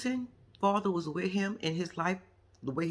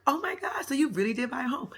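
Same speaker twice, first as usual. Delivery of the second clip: mock excitement; 6 semitones higher than usual. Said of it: "I'm like".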